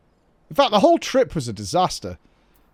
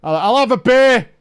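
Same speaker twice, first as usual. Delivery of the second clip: loud, high-pitched order yelled out; loud shout; 8 semitones higher, 8 dB louder than usual. Acted. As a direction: bellow your order across the restaurant. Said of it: "especially with as loud as I am".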